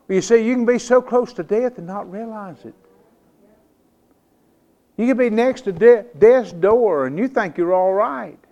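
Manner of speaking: emphatic pulpit delivery; preaching. Real, not acted. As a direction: drive the warning home to the congregation.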